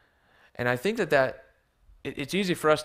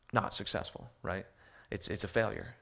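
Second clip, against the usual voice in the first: whispered aside; 2 semitones lower, 6 dB quieter than usual. Real, not acted. Quiet aside on the word.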